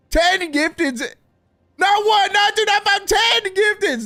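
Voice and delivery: real excited countdown; excited build. Real, not acted. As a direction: count it up, landing hard on the ten. Counting gifted subs in awe.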